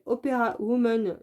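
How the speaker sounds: English words in a French accent; rough English with French sounds. Real, not acted. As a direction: pronounce the English name with a heavy French accent. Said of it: "désolé pour mon accent anglais pourri".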